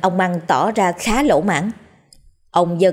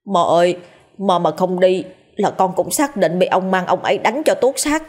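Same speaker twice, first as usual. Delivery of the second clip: pleading. Acted. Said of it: "cố gắng nài nỉ".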